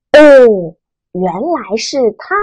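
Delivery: 哦 level and calm, 认识 stated plainly; flat statement tone. Shown as a demonstration. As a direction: say 哦 evenly, just stating. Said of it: "陈述的语气". (哦，平直陈述的语气)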